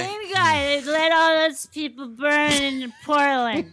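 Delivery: slow slurred mock outrage; drunk voice. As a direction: slur it like a tipsy pundit. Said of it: "I should be doing a drunk voice".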